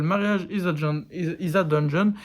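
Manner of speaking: halting English with a French accent. Real, not acted. French vlogger naming an English song title, French accent. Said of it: "Pardon pour mon accent anglais".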